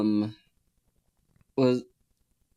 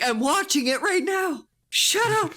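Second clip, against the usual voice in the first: high squeaky mock voice. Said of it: "It's like".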